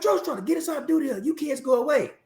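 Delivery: high-pitched, abrupt commanding general; voiced commander. Retold commander giving orders.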